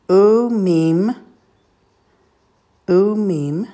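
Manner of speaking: "Umim", "Molad", "Te", "Cha" as separate syllables; each syllable of "Umimoladtecha" said apart with pauses; staccato. Shown as a demonstration. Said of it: "I'm going to say it syllable by syllable".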